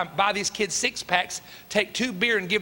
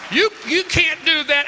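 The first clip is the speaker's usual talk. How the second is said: retold protest; 8 semitones higher, 7 dB louder than usual. Son protesting jail.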